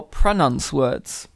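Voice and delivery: "pronounce" as pruh-NUNCE, slowly; slow, mangled "pronounce"; wrong pronunciation. Shown as a demonstration. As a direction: say "pronounce" with a short flattened second vowel. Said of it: "That's how you don't say pronounce".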